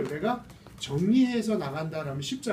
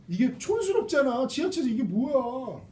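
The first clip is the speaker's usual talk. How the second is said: higher-pitched, put-on grumble; mock complaint; 5 semitones higher than usual. Student objecting to an unfashionable pencil on the subway, mock complaint. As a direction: object in a raised, acted voice.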